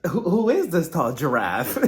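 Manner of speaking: laughing through a smitten question; giggly swooning. Retold or imitated. Chanel Ayan ogling Akeem at dinner, giggly and smitten. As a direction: giggle it out, starstruck. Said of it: "she's just like".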